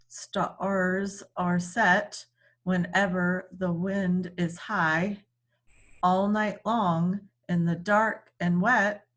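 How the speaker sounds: measured, rhythmic reading of a poem. Acted. Teacher reading a poem to her class, rhythmic recitation. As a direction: lean into the beat of each line.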